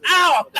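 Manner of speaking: sharp high cry of pain; pained yelp. Real, not acted. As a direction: yelp as you bang your nose. Hits nose on laptop.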